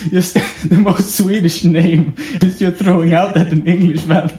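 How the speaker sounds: talking through laughter; amused, giggling as they tell it; laughing. Real, not acted. Teen telling a friend about dad's Niklas blunder, laughing.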